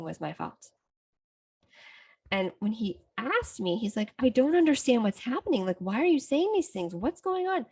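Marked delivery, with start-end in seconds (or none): 4.2-7.7 confused. Retold or imitated. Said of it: "so confused".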